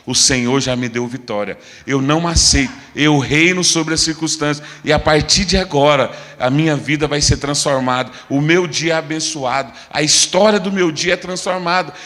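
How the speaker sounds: loud, firm rebuke building phrase by phrase; forceful declaration. Acted. Believer rebukes Satan and declares victory, forceful. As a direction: declare it with full authority. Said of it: "Nós vamos falar".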